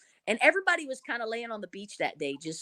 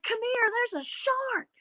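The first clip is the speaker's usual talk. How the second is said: retold holler; 13 semitones higher, slower than usual. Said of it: "I was hollering at Aaron".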